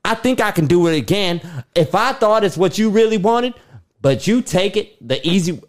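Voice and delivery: pleading lover, earnest; begging her to choose him; acting Noah. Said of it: "Cut. Scene".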